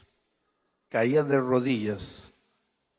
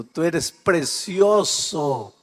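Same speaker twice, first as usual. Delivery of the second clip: tender; 3 semitones higher, 5 dB louder, much slower than usual. Acted. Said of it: "slow tender address to listener".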